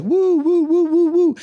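high, loud party whoops; cheering woo. Retold or imitated. Friends at a party hyping up the impersonator, whooping high and loud. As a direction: whoop it up like a hyped crowd.

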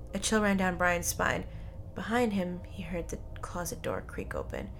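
ominous storyteller; suspenseful narration. A narrator's reading. Reads suspenseful story climax.

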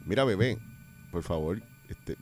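soft-spoken demo. Shown as a demonstration. Gentle way to say shut up.

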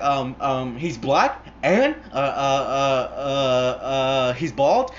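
high, hesitant answers full of ums; imitated frightened stammer. Wounded man answering hitman, panicked stammering. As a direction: grope for answers like a cornered captive.

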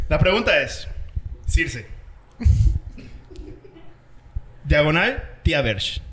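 low, soft seductive voice; breathy bedroom voice. Acted. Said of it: "Voy a poner mi voz seductora".

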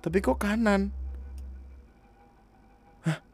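can't believe what you see; baffled. Real, not acted. Puzzled by the footprints.

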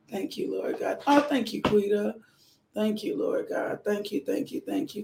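intimate worship murmur to God; whispered prayer. Real, not acted. Prayer resumes.

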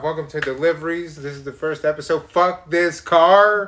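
loud, half-joking vlog intro ending in a shout; mock vlog opener. Pretend host opening his own show, yelling at the car. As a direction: kick off the show then blow up at the car. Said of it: "First thing out my mouth".

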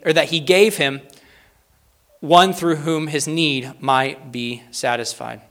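loud opening, slowing to a measured close; slow, deliberate reading. Real, not acted. Preacher reads an apostolic-era quote to the congregation, measured and emphatic. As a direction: proclaim it, then space out the last phrase. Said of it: "read these slowly and succinctly".

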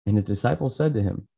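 measured Bible reading with pauses between phrases; solemn-style scripture narration, lightly done. A narrator's reading. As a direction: read the passage aloud, phrase by phrase. Reads scripture aloud after greeting.

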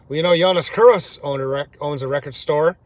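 lightly imitated East Coast accent; typical East Coast accent. East Coast runner butting into record-store talk, in his typical accent. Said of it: "his typical accent, he says".

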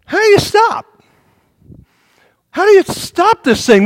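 panicked skier. Retold or imitated.

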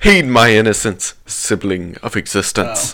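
put-on British accent, loud start. Reader correcting the friend's misquote, mock British accent. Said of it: "read it in a British accent".

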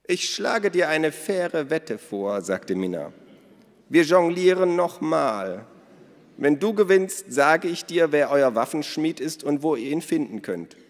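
high, loud, slow wager offer; sly Minna. Acted. Minna offers Elos a wager, slow and sly. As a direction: savour every word of the bet.

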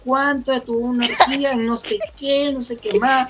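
gossipy retelling. Retold or imitated. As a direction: dish the rumor with relish. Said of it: "me dice". (chisme imitado, más agudo)

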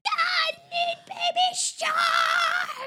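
put-on high, slow pleading child voice; drawn-out little kid whine for a cartoon; whiny toddler demand. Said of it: "she'd be like".

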